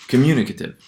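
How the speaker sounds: "communicative" stressed on MU, ending reduced; unmoved stress. Shown as a demonstration. Lecturer showing stress stays put, "communicative" stressed on MU. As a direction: keep the weight on the second syllable of "communicative". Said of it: "the stress doesn't move".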